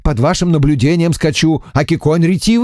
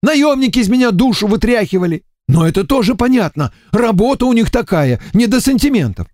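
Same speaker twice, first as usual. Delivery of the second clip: higher, whining lament, nearly tearful; lamenting emissary; 11 semitones higher than usual. A narrator's reading. Эмиссар причитает перед Варварой, плаксиво. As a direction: complain of being beaten all day. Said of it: "Закончил причитать?".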